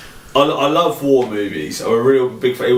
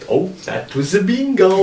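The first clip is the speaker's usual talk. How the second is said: high, lilting villain imitation; imitating a smooth film villain; Christoph Waltz voice; 8 semitones higher than usual. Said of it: "you just say that's bingo".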